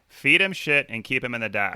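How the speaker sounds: put-on second try at a Boston accent. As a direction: lighter Boston accent, retried. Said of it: "One more time".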